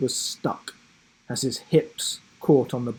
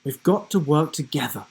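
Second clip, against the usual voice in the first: urging; faster than usual. Acted. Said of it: "urged Rhea".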